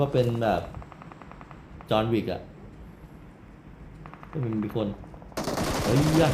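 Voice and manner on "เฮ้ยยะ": startled shout. Real, not acted. Enemy appears suddenly.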